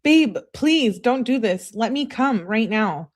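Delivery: imitated pleading. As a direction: draw out the plea like a clingy girlfriend. Acting out texter's desperate pleas.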